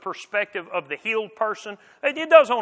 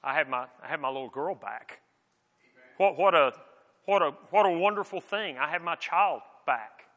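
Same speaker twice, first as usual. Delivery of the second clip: tender relief; 5 semitones lower, 4 dB quieter than usual. Retold or imitated. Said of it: "most of us would have gone".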